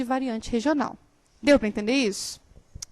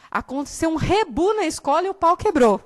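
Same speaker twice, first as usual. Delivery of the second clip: laughing; 4 semitones higher, 6 dB louder than usual. Shown as a demonstration. Reading a slangy popular example.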